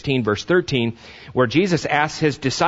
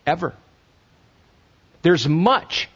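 ordinary talk, nothing marked

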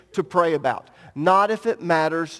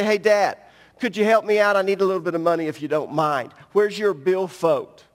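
put-on casual kid asking Dad; 3 semitones lower than usual. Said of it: "I know what they would do".

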